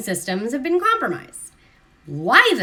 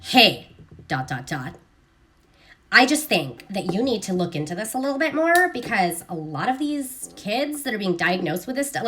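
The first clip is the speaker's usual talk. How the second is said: harsh reading. Retold or imitated. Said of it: "they're reading it like".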